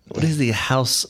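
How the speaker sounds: tentative mock French accent; attempted French accent. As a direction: try a French accent, not very well. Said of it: "I can't do a French accent".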